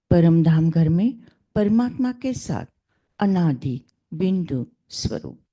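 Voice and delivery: measured recitation in short, separated phrases; meditation affirmations. Acted. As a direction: lead listeners through affirmations, phrase by phrase. Leads affirmations before the reading. (ध्यान में आत्म-चिंतन का लयबद्ध पाठ)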